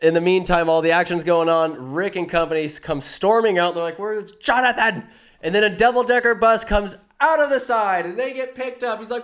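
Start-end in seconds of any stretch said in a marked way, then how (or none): 4.0-5.1 high-pitched imitated shout; mock calling out. Rick's group storms out seeking Jonathan, high mock call. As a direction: call for someone missing, hammed up.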